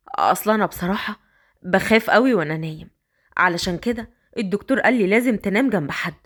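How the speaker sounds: put-on a man coaxing the girl upstairs.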